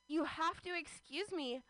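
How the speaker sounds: slow, overly formal speech; a lightly voiced, stiff confession; mock formal confession. Woman confessing a dream to her crush, slow and stiff. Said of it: "I was saying these words".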